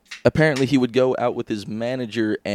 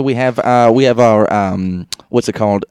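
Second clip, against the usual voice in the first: slurring, lost for words; 5 dB louder than usual. Real, not acted. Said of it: "I'm so drunk right now".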